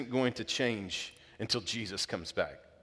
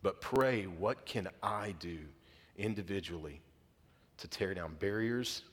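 subdued, softer prayer prompting; leading prayer; 3 semitones lower, 5 dB quieter than usual. Real, not acted. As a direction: guide the congregation gently into prayer.

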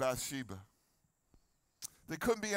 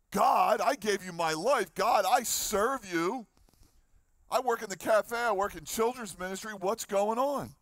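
whiny complaint; 3 semitones higher, 3 dB louder than usual. Acted. David complains to God that his service goes unrewarded, whiny and pleading. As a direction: whine to God like a wronged servant. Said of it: "David gets a little whiny".

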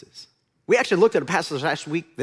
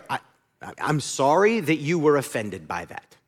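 fake apology; 3 semitones lower than usual. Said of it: "world's worst apology".

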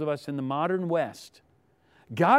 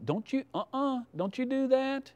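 put-on high, soft scolding of a child; gentle high-pitched parental no-no; parent's warning; 7 semitones higher, 6 dB quieter than usual. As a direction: warn a small child off, pitched up and quiet.

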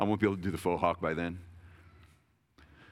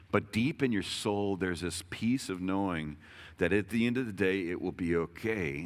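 reassuring. Real, not acted. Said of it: "reassuring the congregation slowly".

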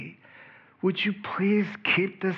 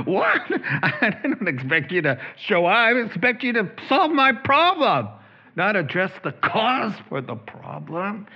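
startled shriek; 4 semitones higher than usual. Retold or imitated. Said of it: "initial shriek of terror".

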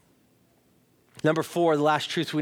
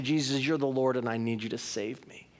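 softer, lower, humble plea; humble prayer; 4 semitones lower, 6 dB quieter than usual. Acted. Sinner coming to Jesus for saving, humble and hushed. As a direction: drop down into a humble appeal. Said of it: "when I come to him humbly".

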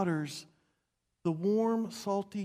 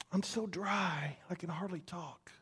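parched, dry voice; 2 semitones lower, 6 dB quieter than usual. Acted. Preacher voicing the parched psalmist, faint and drained. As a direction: voice drained to a faint rasp-less hush.

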